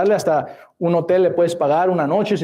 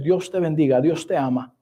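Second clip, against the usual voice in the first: gentle blessing; 3 semitones lower than usual. Shown as a demonstration. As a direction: answer the curse kindly. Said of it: "tú diles".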